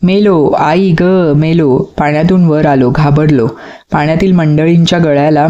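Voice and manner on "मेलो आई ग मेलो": slow, pleading cry of fright; stretched frightened cry; drawn-out cry. Acted. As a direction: wail it out, scared of the water. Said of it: "मी ओरडलो".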